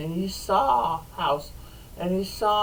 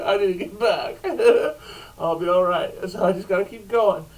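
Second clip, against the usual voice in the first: laughing; 4 dB louder, faster than usual. Retold or imitated. Fleeing, laughing.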